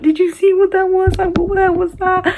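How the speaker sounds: very high mock-hysterical wail; retold hysteria. Crying mum asks parents about the hand, high mock hysteria. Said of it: "I was hysterical".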